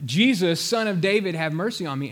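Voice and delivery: loud, pleading cry for mercy; a beggar crying out for mercy. Retold or imitated. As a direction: call out to Jesus over the crowd. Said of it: "He's crying out this guttural, crazy sound".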